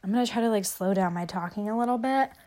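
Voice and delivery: blocked nose, a bit short of breath; stuffy nose. Real, not acted. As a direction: talk through a stuffed-up nose, breathing through the mouth. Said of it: "my nose is still stuffed and I can't catch my breath".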